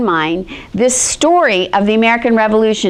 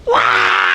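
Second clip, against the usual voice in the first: put-on baby wail; 13 semitones lower than usual. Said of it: "he went".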